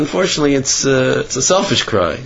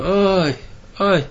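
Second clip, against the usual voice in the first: groaning; 4 semitones higher than usual. Retold or imitated.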